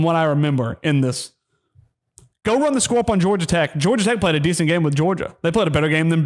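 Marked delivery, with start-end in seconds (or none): 2.4-3.8 angry challenge. Real, not acted. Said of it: "I've never been this angry".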